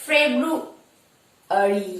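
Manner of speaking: ফেব্রুয়ারি said slowly, every syllable clear; ফেব্রুয়ারি spoken slowly as a model; slow model word. Shown as a demonstration. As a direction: draw out ফেব্রুয়ারি for the class. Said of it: "number five".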